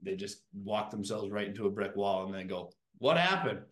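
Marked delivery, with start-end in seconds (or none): 3.0-3.6 high, puzzled mock cry; mock surprised what-happened voice; mock bewilderment. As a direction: play the baffled owner who hit the wall. Mocking confused company owners.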